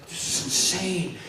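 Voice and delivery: slow, laughing through it; amazed chuckle; laughing disbelief. Retold or imitated. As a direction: giggle in awe. Overwhelmed joy.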